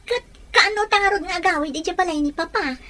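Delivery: soft, tearful plea. Acted. Daughter asking mother about going home, tearful. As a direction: ask through held-back tears. Child asks when they go home.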